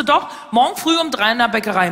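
lightly voiced insistent job agent; a hint of an official passing on news; job agent announcing. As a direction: deliver the news as a firm statement. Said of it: "Und sie so".

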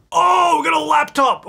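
high, drawn-out excited squeal; delighted high shout; thrilled surprise. Real, not acted. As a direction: cry out over a lucky find. Surprised by lucky dumpster find.

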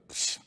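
soft mock toss noise; quiet "psh" of brushing it off; dismissive psh. Speaker mimics tossing away the bills, dismissive psh.

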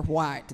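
"white" slow, in a broad Kentucky vowel; drawn-out "white" with the home vowel. Shown as a demonstration. Showing the panel how classmates made him say "white". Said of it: "They wanted me to pronounce".

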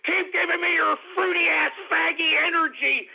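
mock the haters through laughter; laughing taunt. Real, not acted. Host taunting haters, laughing and jeering.

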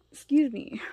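hiccuping mid-sentence; with hiccups. Real, not acted. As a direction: catch a hiccup between words. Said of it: "I have hiccups 'cause I'm excited".

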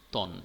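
"তন" as one closed syllable, ending on ন; syllable on its own. Shown as a demonstration. Teacher showing students the first syllable, "তন" said alone. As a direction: set "তন" apart as a single beat. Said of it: "প্রথমে আসছে".

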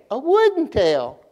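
high, slow arc on "wooden", falling on "tail"; big sing-song finish, "wooden" sailing high; voice swooping up. Shown as a demonstration. Preacher finishing children's poem, exaggerated high inflection. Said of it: "my voice goes up, y'all go up".

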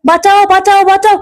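high, urgent calls for help; cry for help. Acted. Uncle stuck after the crash, calling for help in mock panic. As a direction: shout for rescue in mock panic.

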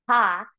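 breathy ha pushed from the throat; ha sound. Shown as a demonstration. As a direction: demo an audible ha on the exhale. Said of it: "sound, forcing that air up back to the throat".

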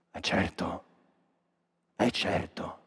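breathless whisper to the audience; conspiratorial whisper, no voice; whispered aside. Acted. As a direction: hush it like a secret. Confides in a whisper.

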